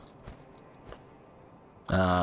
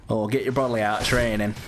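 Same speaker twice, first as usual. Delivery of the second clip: put-on British accent. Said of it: "Do you like me doing that accent?".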